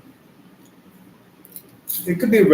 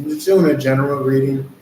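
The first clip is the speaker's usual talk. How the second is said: chewing while talking; talking with mouth open; 3 dB louder than usual. Real, not acted. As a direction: mouth open around popcorn. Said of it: "apologies for talking with my mouth open".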